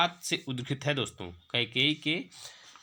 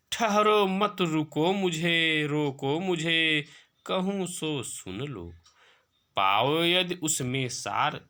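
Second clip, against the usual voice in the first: slow, drawn-out verse recitation; poem recitation; slower than usual. Acted. Teacher reciting Kaikeyi's verse to students, slow poetic recitation. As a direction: recite the verse slowly, stretching the line endings.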